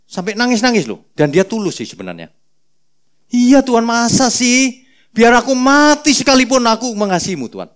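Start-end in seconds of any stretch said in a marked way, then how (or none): 3.3-7.7 high, loud, overacted vow; hammed-up Peter swearing devotion; melodramatic Peter. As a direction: ham up a teary pledge of love. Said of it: "Petrus memang agak lebay".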